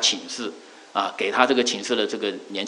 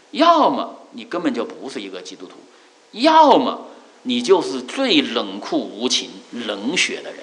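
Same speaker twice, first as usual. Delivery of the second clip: slow, stressed verdict on "冷酷无情"; bitter accusation; slower than usual. Retold or imitated. Barber condemning a silent Christian, slow and mildly bitter. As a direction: spell out the accusation slowly. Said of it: "变得非常生气的样子".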